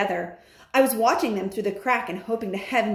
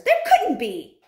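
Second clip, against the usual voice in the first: doubting witches; 3 semitones higher, 5 dB louder than usual. Acted. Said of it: "cried the others".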